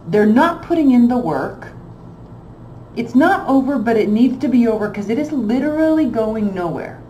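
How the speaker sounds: fed-up tarot reader venting; frustrated. Real, not acted. Frustrated reader lecturing viewers.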